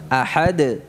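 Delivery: ahad with the dal held and bounced; correct dal. Shown as a demonstration. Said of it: "coba ikuti contoh yang kedua". (ahad dengan dal yang benar)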